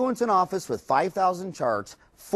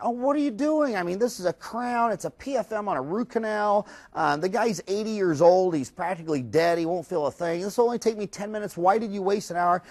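higher-pitched, incredulous scolding; exasperated assistant; 5 semitones higher than usual. Retold or imitated. Dental assistant scolding the front office over wasted time, exasperated. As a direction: act baffled that they booked a whole hour.

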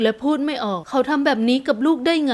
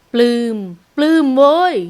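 loud, drawn-out glee; elated exclamation; 5 dB louder, slower than usual. A narrator's reading. New father silently celebrating his child, jubilant cry. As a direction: crow it as if telling the world. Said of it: "อยากจะตะโกนให้โลกรู้".

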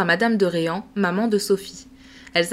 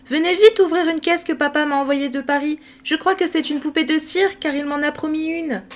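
put-on excited little girl; 7 semitones higher than usual. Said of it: "en accourant".

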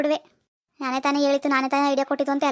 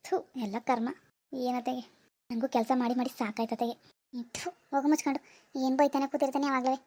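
grumbling under breath; 7 dB quieter than usual. Acted. Grumbling after mother's scolding.

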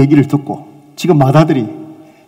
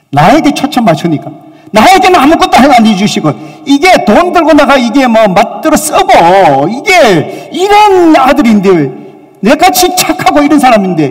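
higher, louder resentful grumble, slowing down; sulky son listing his grievances; indignant self-pity, higher and louder; 9 semitones higher, 5 dB louder than usual. Acted. Elder son's self-centred grumble.

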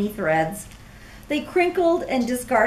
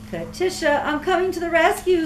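higher, hurried rescue call; brave rescue; 6 semitones higher, faster than usual. Acted. Clara rushes to save Katisha, quick and high. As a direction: rush in to save her. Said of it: "said Clara".

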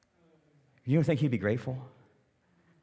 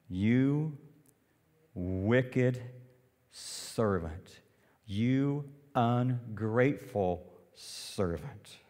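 stern master; much slower than usual. Acted. Master rebuking the servant.

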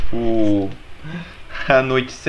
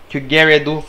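squeaky high voice; 11 semitones higher than usual. Acted. Repeats Gary is evil.

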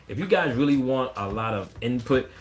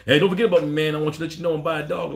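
mock needy caller; 4 semitones higher, 5 dB louder, faster than usual. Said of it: "then they go".

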